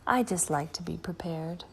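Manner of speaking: soft, secret whisper; granny winking at the children; conspiratorial whisper. Acted. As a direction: let them in on a secret. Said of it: "with a wink".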